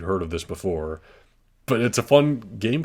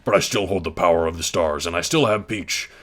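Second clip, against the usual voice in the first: Bowser voice; 4 dB louder than usual. Acted. Reading Bowser's defeat speech.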